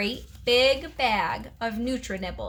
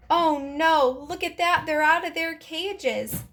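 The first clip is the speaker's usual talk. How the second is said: higher-pitched dismayed exclamation; alarmed surprise; 5 semitones higher than usual. A narrator's reading. Teacher finding the pets out of their cages, alarmed. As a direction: exclaim it as a startled discovery.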